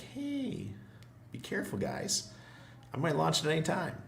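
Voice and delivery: high, teasing mock voice of the dev; imitating the big man. Streamer mimicking the big man teasing fans, high mock voice. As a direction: squeak it out like a coy tease. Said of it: "It's like".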